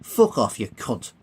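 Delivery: dismissive insult. Acted. Billy brushing off the Colonel, dismissive. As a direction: throw the insult away over your shoulder.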